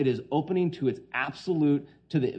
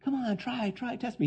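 much higher, light coaxing invitation; coaxing God; 10 semitones higher, 5 dB quieter than usual. Acted. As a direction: tease them into trying, pitched up. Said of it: "The Lord says".

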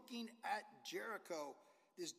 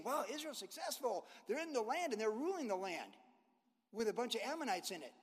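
higher, mock-impressed outsider; impressed Syrian; 4 semitones higher than usual. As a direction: gush like an admiring neighbour. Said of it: "this Syrian saying".

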